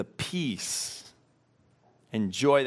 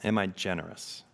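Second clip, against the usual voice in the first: unhurried questions with room to sit with them; slow reflective reading; 5 dB quieter than usual. Real, not acted. Pastor giving listeners a moment with each question, read slowly. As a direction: read each question slowly, leaving long silences after. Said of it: "just gonna read them slowly".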